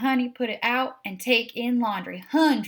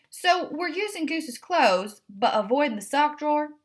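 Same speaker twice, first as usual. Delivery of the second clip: a picky cat checking the plan; Edith the cat; 6 semitones higher than usual. A narrator's reading.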